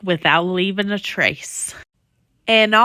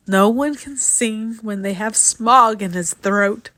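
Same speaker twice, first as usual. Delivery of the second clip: a lightly croaking little creature, grieving; lightly voiced Lorax, mournful over his swans; croaky Lorax cry. Lorax pleading with the factory owner, a hint of a croak. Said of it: "he cried in a croffle and croak".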